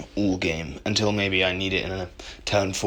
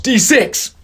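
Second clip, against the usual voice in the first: loud, high dice-roll cheer; excited shout; 11 semitones higher, 4 dB louder than usual. Real, not acted. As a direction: yell it out as the dice land.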